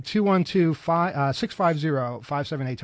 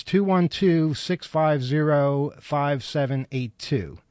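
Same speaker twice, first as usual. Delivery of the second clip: slow number read; much slower than usual. Real, not acted. Reading out the number slowly.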